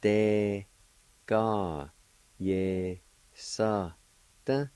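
"Te ka ye sa te" each syllable separate. Shown as a demonstration. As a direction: give "Te ka ye sa te" one beat per syllable. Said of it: "it's pronounced like this".

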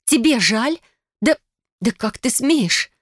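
high, loud indignant cry; outraged. Acted. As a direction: sputter with fury, slowing on how dare you. Heroine outraged.

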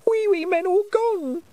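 put-on very high, small child's voice, sadly; a lonely little boy missing them. A narrator's reading. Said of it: "said Wentworth sadly".

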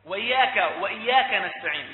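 وإياك with one short y; ya without doubling. Shown as a demonstration. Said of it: "لا، إياك".

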